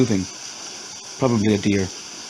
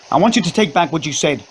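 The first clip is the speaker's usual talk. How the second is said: screamed; 6 semitones higher than usual. Acted. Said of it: "she screamed".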